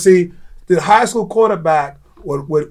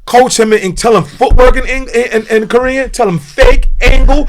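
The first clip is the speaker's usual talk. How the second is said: raised, higher voice giving orders; insistent coaching demand; 4 semitones higher, 3 dB louder than usual. Retold or imitated. Man challenging a coach to use only Korean, insistent demand. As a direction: press each instruction on the coach, worked up.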